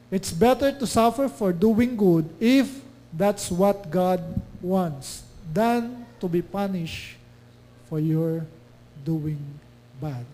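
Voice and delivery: slow, firm verse reading; scripture reading. Acted. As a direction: read the verse slowly and firmly. Reads scripture slowly. (mabagal at matatag na pagbasa ng talata)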